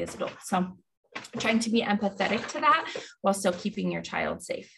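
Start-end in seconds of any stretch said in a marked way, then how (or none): 1.4-4.7 breathless after running upstairs; short of breath, panting lightly. Real, not acted. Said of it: "Sorry, I'm out of breath from".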